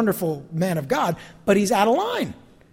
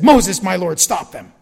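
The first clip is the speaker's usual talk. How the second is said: urgent plea; 7 dB louder, slower than usual. Acted. Joshua voiced demanding Moses act.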